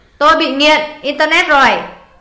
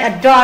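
"adore" stressed on its second syllable, dore. Shown as a demonstration. Teacher going over stress answers, second syllable of adore stressed. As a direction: lean on the end of "adore". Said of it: "là âm hai".

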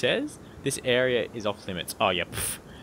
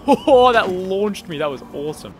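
high loud laughing exclamation; laughing delight; 8 semitones higher, 9 dB louder than usual. Real, not acted. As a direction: laugh in surprise. Launched, laughs.

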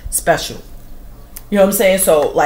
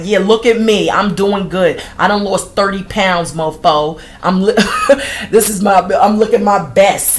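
boastful mock brag; 4 dB louder than usual. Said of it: "petty LaBelles out there like".

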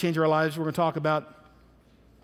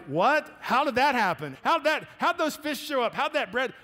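amazed disbelief; 7 semitones higher than usual. Retold or imitated.

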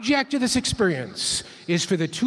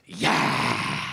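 a much lower tiger-like roar of yeah; ferocious tiger. Shown as a demonstration. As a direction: roar it like a tiger going for the kill. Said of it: "The symbol for the tiger looks like this".

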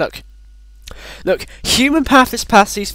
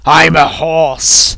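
slow, drawn-out silly horse voice; horse impression; much slower than usual. Pretending to be the horse on the cart, silly drawn-out voice. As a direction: stretch it out like a talking horse.

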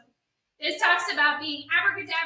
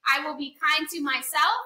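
calm affirmation. Shown as a demonstration. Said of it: "just repeat after me".

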